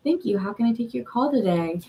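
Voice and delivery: polite customer-service phone voice; mild phone-greeting politeness; telephone voice. Shown as a demonstration. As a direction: answer like a call-centre agent. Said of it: "we all have telephone voice".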